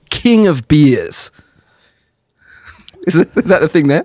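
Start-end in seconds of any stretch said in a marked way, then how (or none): 0.1-1.3 slogan. Retold or imitated. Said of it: "the tagline on the bottles is".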